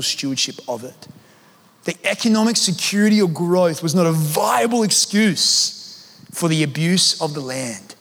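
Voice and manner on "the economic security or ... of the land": slow, weighty restatement to drive it home; slow emphatic repeat. Shown as a demonstration. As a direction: read it again slowly, punching "economic" and "abuse". Same quote repeated for emphasis.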